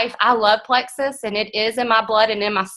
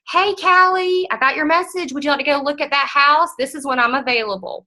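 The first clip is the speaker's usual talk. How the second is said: high, bright call-back greeting; friendly agent reply; 5 semitones higher than usual. Retold or imitated. Agent calling a client back next morning, a friendly high greeting. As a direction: sound cheerful and professional. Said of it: "respond to them and say".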